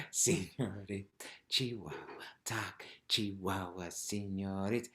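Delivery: even rhythmic count, no punch on "talk"; steady chant with every word weighted alike; democratic, equal stress. Shown as a demonstration. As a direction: keep "Señorita" and "Chihuahua" level. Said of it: "everything's kind of got the same value".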